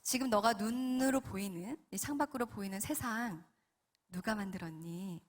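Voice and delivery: calm, measured questioning; patient divine voice; gentle Holy Spirit. Retold or imitated. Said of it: "그러면서 성령님께서".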